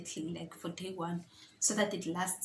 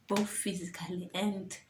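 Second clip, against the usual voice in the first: breathless, running out of air; short of breath mid-sentence. Real, not acted. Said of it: "let me catch my breath".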